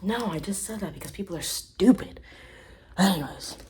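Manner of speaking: lightly put-on accent, smug and whispery; fake Johnny Depp impression. Comedian mocking a celebrity, smug fake accent.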